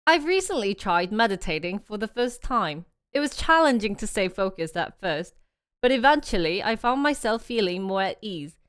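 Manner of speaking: lightly put-on British accent; British accent attempt. Shown as a demonstration. Streamer reading a passage to test the accent app, attempting British accent. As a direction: read it in a tentative British accent. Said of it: "let me try British".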